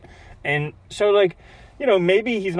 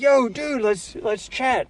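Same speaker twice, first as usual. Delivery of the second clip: higher-pitched, casual buddy greeting; imitating eager friend; 8 semitones higher, slower than usual. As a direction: mimic a pal keen to catch up. Retells friend's eager chat invitation.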